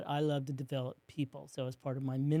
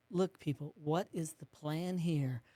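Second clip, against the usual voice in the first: louder, slowing, pressing the question home; mean and emphatic; 3 semitones higher, 5 dB louder, slower than usual. Retold or imitated. Consultant challenging the couple, mildly mock-stern and emphatic. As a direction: push them hard, a touch exasperated. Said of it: "like, mean and emphatic".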